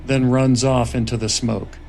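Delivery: measured screenplay narration; script narration. A narrator's reading. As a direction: read the scene directions steadily. Reads screenplay narration aloud.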